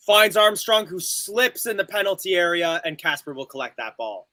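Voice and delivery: quick live match call; play-by-play commentary. Acted. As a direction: call the action as it happens.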